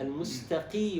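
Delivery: "المستقي" with only slight heaviness on qi; light qaf, correct. Shown as a demonstration. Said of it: "درجة التفخيم تكون أدنى الدرجات". (أدنى تفخيم لقاف "المستقي")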